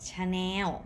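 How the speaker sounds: "Chanel" as cha-new, drawn out with final w; Thai pronunciation. Shown as a demonstration. Teacher showing what Thais say instead, Thai pronunciation. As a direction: stretch "Chanel" into a w ending. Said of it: "Thai people don't say".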